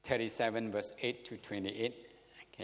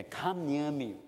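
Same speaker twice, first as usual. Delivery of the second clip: raised-pitch emotional appeal; emotional plea; 4 semitones higher, slower than usual. Acted. Joseph calling his brothers closer, emotional plea. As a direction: plead with a touch of emotion. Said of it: "emotional stress is there".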